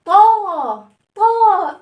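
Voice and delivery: طاء said loud with a wide open long aa. Shown as a demonstration. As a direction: stretch طاء wide open, full mouth. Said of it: "صوتها".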